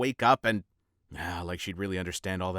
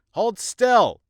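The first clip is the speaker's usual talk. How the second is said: sharp high shout; shouted order; 12 semitones higher, 11 dB louder than usual. Acted. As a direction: bark the order loudly. Shouting at patient.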